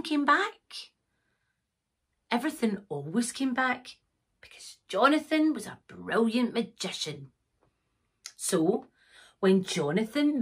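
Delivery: lively storyteller with dramatic pauses; storybook reading. A narrator's reading. Narrator reading a magic pony tale to children, storybook style. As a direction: build suspense, rising on the magic. Reads a picture book.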